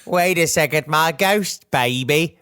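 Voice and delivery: put-on drawn-out, botched Australian accent sliding into Cockney; bad Australian accent, Cockney-sounding. Ghost father seeing his baby, bad Australian-Cockney accent. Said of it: "that's Cockney".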